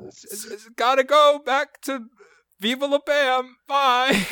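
high, whiny skater-dude voice; Bam Margera impression. Friend's radio-spot sign-off as Bam Margera, hammed-up impression. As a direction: stretch it out slow and high, hammed up. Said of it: "his impression of Bam Margera was just".

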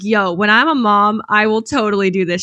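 mom teasing her son in a put-on teen voice; mock teen voice. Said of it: "I was like".

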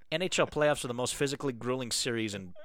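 lightly voiced Canadian rant, drifting Irish; Canadian accent. Co-host reads a listener letter in a mild Canadian accent. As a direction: read the rant in a half-hearted Canadian accent. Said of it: "This primarily needs to be read in a Canadian accent".

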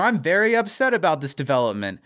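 mildly sarcastic show of being upset; fake upset, sarcastic. Michael fakes upset, in on the joke with Eleanor, mildly sarcastic.

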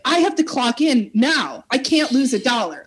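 mild panic, pitched a little high; retold freak-out. Desperately poor worker voicing her own thoughts at a crime scene, mildly freaking out. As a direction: imitate fretting over every lost dollar. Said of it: "Like, I'm freaking out".

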